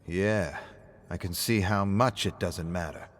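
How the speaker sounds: flat, dry sarcastic aside; dry sarcasm. Acted. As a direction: needle him without raising your voice. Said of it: "David sighs at the sarcasm".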